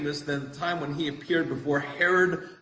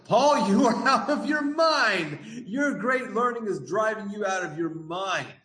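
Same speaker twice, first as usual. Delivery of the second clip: raised, accusing call, pitch jumping high; loud voice; 7 semitones higher than usual. Retold or imitated. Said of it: "said in a loud voice".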